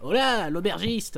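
booming, slow dwarf bellow; a loud, slow burly dwarf. Acted. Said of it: "cher maître nain".

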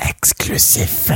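breathy high hushed whisper; whispered announcer. Pretend. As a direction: hush it like a dramatic trailer voice. Mock-grand announcement.

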